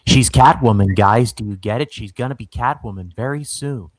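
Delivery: loud, emphatic mock announcement; hammed-up loud announcement; mock announcing. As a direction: spell it out loudly to the audience. Voicing the showrunner spelling it out.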